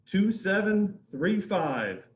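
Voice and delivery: slow, loud, digit by digit; raffle caller. Real, not acted. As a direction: spell out each digit slowly and clearly. Repeats the number slower.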